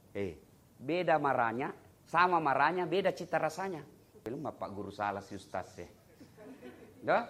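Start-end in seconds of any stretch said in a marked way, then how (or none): none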